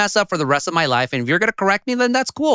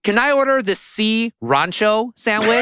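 mock American customer; 4 semitones higher than usual. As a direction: ham up a confused American ordering. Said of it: "they'll say".

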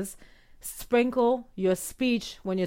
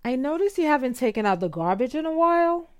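higher, lilting delivery with a questioning lift; uptalk; 4 semitones higher than usual. Shown as a demonstration. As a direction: soften it into a gentle half-question. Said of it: "by using uptalk".

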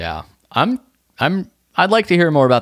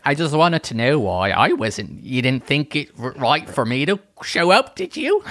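put-on Australian accent; 2 semitones higher than usual. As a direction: play an aggrieved guest in an Australian accent. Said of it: "That was a really good accent".

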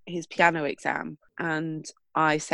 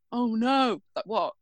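panicked son; 4 semitones higher than usual. Retold or imitated. Son realises forgot books.

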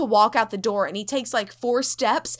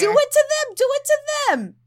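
much higher and louder, hammed-up yell; angry taunting yell at ghosts; mock yelling; 5 dB louder, faster than usual. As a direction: dare the ghosts at full volume. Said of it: "so he's just yelling at them".

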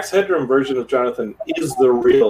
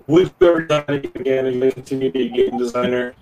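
robot voice. Real, not acted. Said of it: "You went robot voice".

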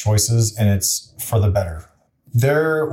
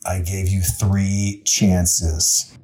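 lower, very slow fatherly God; God answering; 3 semitones lower, much slower than usual. Retold or imitated. God answering the drowned man, low and slow. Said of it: "And he goes".

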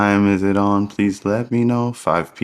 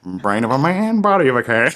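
frog voice; 3 semitones higher than usual. Pretend. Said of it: "Michael J Frog voice".

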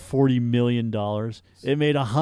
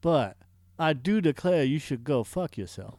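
lightly drawled mock-courtly Southern; polite Southern gentleman delivering an insult. Host insulting co-host in jest, Southern gentleman. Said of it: "going into a Southern Gentleman".

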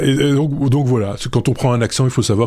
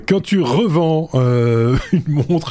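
slow, lilting put-on Swiss accent, pitched higher; mock Swiss accent; 3 semitones higher, much slower than usual. Host teasing the Swatch story in a mock Swiss accent. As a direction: stretch the words like a hammed-up Swiss speaker. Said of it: "je fais bien l'accent suisse".

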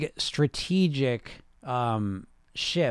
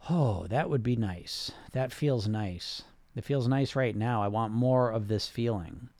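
gentle savoring; 2 semitones lower, slower than usual. Retold or imitated. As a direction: savor each word like a pleasant feeling. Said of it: "But a motivation of".

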